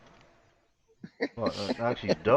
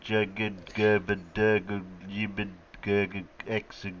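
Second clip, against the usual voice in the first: reading random letters aloud as backwards speech. Pretend. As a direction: rattle off gibberish syllables as if reversed. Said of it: "I'll say it backwards".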